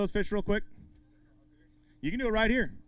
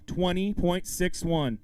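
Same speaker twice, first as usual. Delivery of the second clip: "Twenty point six one" slow and drawn out; slow repeat; slower than usual. Real, not acted. Emcee repeating the angler's target, "Twenty point six one" said slowly. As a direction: stretch out "Twenty point six one", spacing each word.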